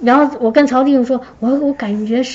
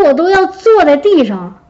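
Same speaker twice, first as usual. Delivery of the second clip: ordinary talk, nothing marked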